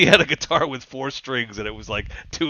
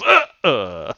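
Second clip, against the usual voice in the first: short choked grunts, a little louder; mock mouse death grunts; dying mouse grunts; 4 dB louder than usual. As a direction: give a mouse's last gasps. Voicing dying trapped mouse.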